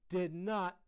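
loud, high retort; shouted. A narrator's reading. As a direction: shout back a child's denial. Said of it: "Heidi shouted".

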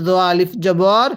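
জবর read as ja with the alif held long; one alif stretch. Shown as a demonstration. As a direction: draw out the vowel in জ আলিফ জবর by one alif. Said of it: "সবাই আওয়াজ দিয়ে পড়ব".

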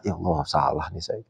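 guilty realisation. Retold or imitated. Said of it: "orang ini ngerasa".

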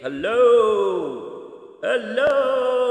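loud call with heavy reverb; cave echo. Shown as a demonstration. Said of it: "which makes it sound like you're in a cave".

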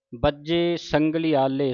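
ਸੰਗਲੀਆਲੇ said as one joined word; ਸੰਗਲੀਆਲੇ with no break inside; joined reading. Shown as a demonstration. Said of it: "ਸੰਗਲੀਆਲੇ ਪਾਠ ਇਕੱਠਾ ਹੈ".

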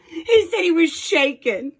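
laughing. Real, not acted. Both laugh at his shaking.

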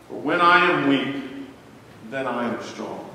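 solemn Bible reading from the pulpit; scripture reading. Acted. Preacher reading Second Corinthians to the church. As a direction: read the verse with weight and rise.

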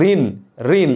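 ঋণ said with a dead stop on the final n, no vowel after it; শেষ ব্যঞ্জনে থামা. Shown as a demonstration. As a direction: halt on the closing n of ঋণ. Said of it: "আটকে যাচ্ছি". (ঋণ-এর শেষে ণ-তে আটকে থামা, স্বর ছাড়া)

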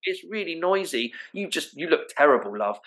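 mock irritated mother in labour; labouring woman. Labouring woman telling the panicking visitor to leave, lightly voiced and irritated. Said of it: "the woman might be going".

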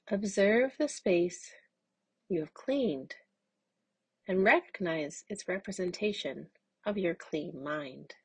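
calm, measured meditation guide; unhurried instructions for a mindful exercise; guided mindfulness. Acted. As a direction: guide listeners gently, with long pauses.

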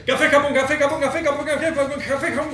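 high-pitched, laughing through the words; giggling while being tickled. Real, not acted. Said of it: "te concentres en que tenés cosquillas". (riéndose con cosquillas)

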